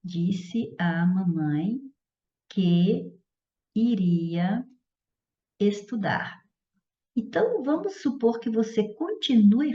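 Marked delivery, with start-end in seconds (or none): 0.0-6.4 word by word, long pauses between; slow dictation. Shown as a demonstration. Teacher writing out an example sentence, slow dictation. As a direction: dictate it slowly in small chunks.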